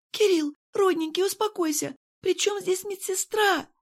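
high, pleading, slowing at the end; frightened Irene. A narrator's reading. Irene begging Kirill, high and frightened. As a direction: coax him gently but afraid. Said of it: "Ирен, испуганная".

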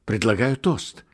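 high, loud, ringing toast; rapturous toast. A narrator's reading. Nikolka jumping up and proposing a toast to the tsar, rapturous and loud. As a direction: raise the glass and cry it out with rapture. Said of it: "вдруг восторженно заговорил он".

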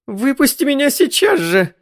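frightened wife screeching to be let out; shrieking. A narrator's reading. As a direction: screech it out in panic. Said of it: "взвизгнула Джоан".

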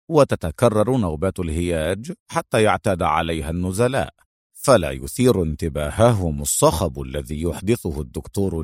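lightly voiced low hero, measured explanation; Adham, composed deducer. Adham explains the kidnappers' plan to his foe, composed and low. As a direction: lay out the scheme in a composed low voice.

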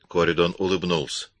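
ordinary delivery

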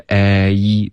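"A一" said as one continuous slide; "A一" smoothly blended into one vowel; gliding diphthong. Shown as a demonstration. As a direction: glide from "A" into "一". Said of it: "一个A一的一个滑动".

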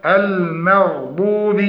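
المغضوب said slowly, ending in a clear "bi"; ba with a kasra. Shown as a demonstration. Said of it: "كسر الباء". (تحقيق كسر الباء)

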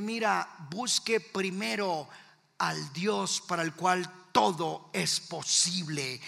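slow, measured reply; steady the caller with slow words; calm pastoral counsel. Retold or imitated. Pastor answers a desperate husband, calm and deliberate.

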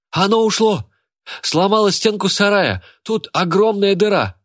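high, loud alarm; loud alarmed cry. A narrator's reading. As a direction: shout the news of the escape. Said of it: "послышался громкий голос Рамбуты". (Рамбута громко кричит, что зверь сбежал)

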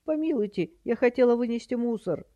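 put-on high, protesting old-lady squeal; high-pitched flustered granny. A narrator's reading. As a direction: plead innocence in a high voice. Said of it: "заверещала тётя Витя".

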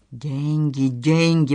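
soft weary moan; groaning.

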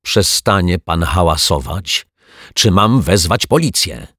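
mildly cross teacher; teacher mildly scolds the noisy neighbour; annoyed. Acted. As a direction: scold him, a touch irritated. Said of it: "zdenerwowała się".

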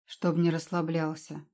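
usual speaking voice

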